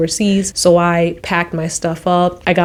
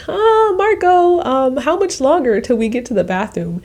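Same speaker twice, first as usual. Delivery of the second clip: wary question; 7 semitones higher than usual. Retold or imitated. Asking guide on stairs.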